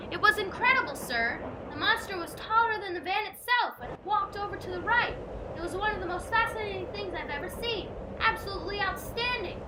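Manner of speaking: high, loud and thrilled; excited report. Acted. Aubrey breathlessly reporting to Jim, thrilled. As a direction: gush about the monster you just saw.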